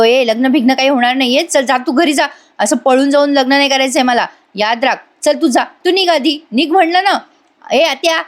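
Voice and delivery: acted irritation, pitch climbing; angry scolding. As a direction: send someone away crossly without really shouting. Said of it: "ओरडू नको".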